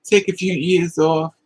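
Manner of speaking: firm, slowed-down advice; slow emphatic repeat. Real, not acted. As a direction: lay each word down slowly.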